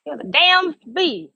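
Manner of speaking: high, loud, rattled exclamation; startled. Real, not acted. Explaining her scream at a bee, startled. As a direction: blurt it out, still jumpy.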